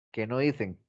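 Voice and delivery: "dicen" with the c turning to th; accent slipping in. Real, not acted. Teacher catching the Spanish sound by accident, lisped c. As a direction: let a Castilian th slip into "dicen". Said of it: "ya se me estaba pegando".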